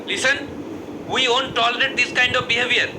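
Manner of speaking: very slow, stiff English announcement; slow formal English. Acted. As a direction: spell out each English word slowly and carefully. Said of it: "দারুণ ইংরেজি". (ধীরে, আড়ষ্ট ইংরেজিতে)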